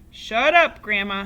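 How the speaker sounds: snapping shut up. A narrator's reading. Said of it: "he said".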